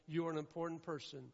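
loud, driving sermon voice; fervent pulpit preaching; preaching at full force. Real, not acted. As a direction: build the congregation up, full volume.

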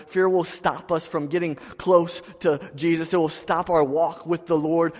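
loud, high, urgent sermon delivery; full-force preaching. Acted. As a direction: preach it hard to the church.

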